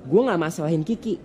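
ordinary talk, nothing marked

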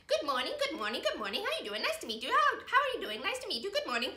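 busy run of repeated hellos; bouncing up and down through endless greetings; rattled-off greetings. Acted. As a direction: greet one ant after another without a break. Acting greeting a long line of ants.

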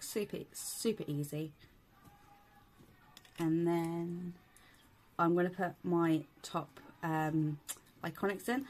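fitting dental veneers in; fingers in mouth. Real, not acted. Seen 0: Fingers clip the lower veneer in; she then talks wearing it.

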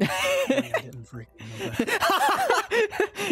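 words squeezed out through laughter; high, slow, laughing hard. Real, not acted. Laughing at the joke.

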